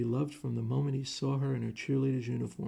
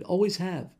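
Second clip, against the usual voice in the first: blurted; 7 semitones higher, 6 dB louder than usual. Acted. Continuing the blurted confession.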